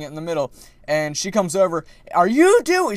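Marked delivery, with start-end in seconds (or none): 2.1-3.0 high, loud screeching imitation of her; mock screaming lady. Imitating the pool lady screaming at the kids. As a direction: shriek it like the angry lady. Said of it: "she's literally screaming".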